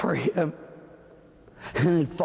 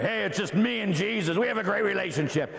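mocking modern Catholic; faster than usual. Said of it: "modern Catholics that you don't need Mary".

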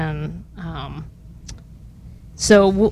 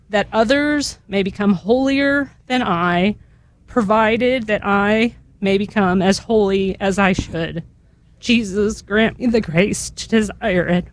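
measured, reverent litany reading; solemn litany with falling responses; recited litany prayer. Real, not acted. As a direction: pray each petition evenly, letting the response fall away.

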